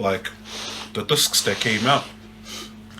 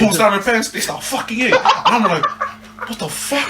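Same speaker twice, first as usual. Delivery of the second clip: high, laughing disbelief; 9 semitones higher, 5 dB louder than usual. Real, not acted. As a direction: tell it while cracking up. Shocked punchline told through laughter.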